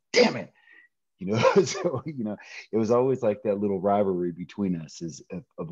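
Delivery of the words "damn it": a sharp, louder, higher mock curse; retelling being outdone by his roommate, a mock frustrated curse. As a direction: bite it off, annoyed he beat you. Finds roommate already out running.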